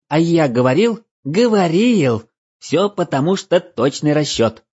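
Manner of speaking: high, loud gloating elf; smug little elf crowing; christmas elf. Acted. Elf gloating about calculation.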